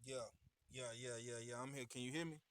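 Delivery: very faint, distant call audio; barely audible over a bad phone line. Real, not acted. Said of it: "sound very faint".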